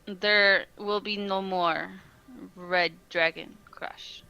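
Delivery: slow, deliberate haggler's pitch; a lightly put-on haggling salesman; haggling merchant. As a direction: talk up the goods to bargain. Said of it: "haggling time".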